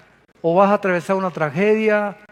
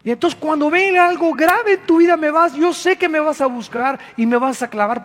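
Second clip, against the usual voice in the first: fervent preaching; 6 semitones higher than usual. Acted. Preaching at full force.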